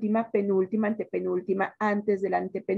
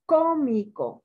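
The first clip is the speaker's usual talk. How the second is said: "Cómico" with the first syllable CO punched; stress on CO; 2 semitones higher, slower than usual. Shown as a demonstration. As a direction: hit the opening "Có" of "Cómico". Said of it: "la sílaba tónica es co". ("Cómico" marcando con fuerza la primera sílaba, CO)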